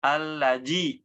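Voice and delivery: allaji with j instead of dz; wrong dzal as jim. Shown as a demonstration. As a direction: demo the error: allaji. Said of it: "ditukarnya dengan huruf jim".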